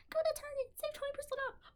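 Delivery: high, bright commercial pitch; mock ad voice. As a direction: sell it like a cheesy ad. Mock ad jingle.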